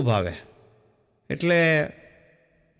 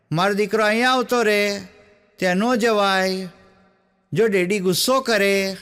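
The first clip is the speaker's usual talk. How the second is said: gentle loving call. Retold or imitated. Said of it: "mummy ધીમેથી પ્રેમથી બૂમ પાડે".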